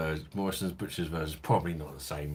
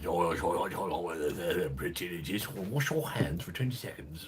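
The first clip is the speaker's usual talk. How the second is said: blustering mock politician, mumbled filler noises; mock a waffling politician; half-hearted politician impression. Streamer can't remember the politician, half-hearted waffling impression. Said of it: "can we have a David Cameron impression?".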